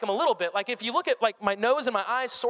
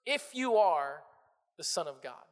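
subtle, subversive; 5 semitones lower, slower than usual. Acted. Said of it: "He's subtle. He's subversive".

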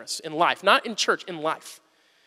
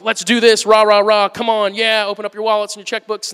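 louder, pumped-up fundraiser cheer; mock rah-rah pitch for the church money drive; mock hype pitch; 5 dB louder than usual. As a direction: parody a pushy giving-campaign rally. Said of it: "I could hit you guys hard and emotional".

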